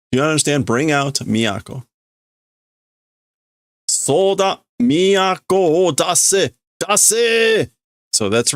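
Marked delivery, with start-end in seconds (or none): 0.1-1.9 mild yell. Shown as a demonstration. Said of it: "This is likely this guy yelling this". 3.9-7.7 acted yelling. Intruder yelling the demand.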